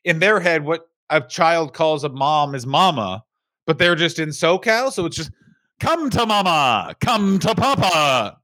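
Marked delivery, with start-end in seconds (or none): 5.8-8.4 calling parent. Acted. Imitating parents calling their child.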